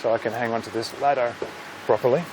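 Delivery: talking with phone in mouth; muffled, phone held in mouth. Real, not acted. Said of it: "I've gotta hold the phone in my mouth".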